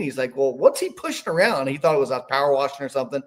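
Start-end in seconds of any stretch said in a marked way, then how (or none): 0.4-1.7 lightly imitated German accent; strong German accent. Curious Amish man asks about the cart, light German accent. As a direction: put on a hint of Pennsylvania Dutch German. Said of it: "has that strong German accent".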